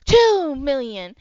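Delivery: loud bidder; loud slow bid call. Acted. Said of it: "you hear".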